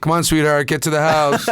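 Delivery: high, loud goofy dad voice; over-the-top dad, breaking into a laugh at the end; hammed-up cartoon dad. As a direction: call out like a silly cartoon father. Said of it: "And then being like".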